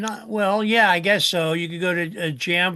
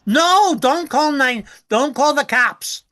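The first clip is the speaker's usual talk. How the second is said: panicked; 6 semitones higher, 4 dB louder, slower than usual. Acted. Panicked plea.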